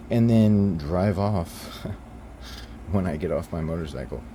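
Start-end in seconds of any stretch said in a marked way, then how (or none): 1.9-2.8 soft, breathy chuckle; quiet scoffing laugh; short laugh. Real, not acted. Laughs in mid-rant.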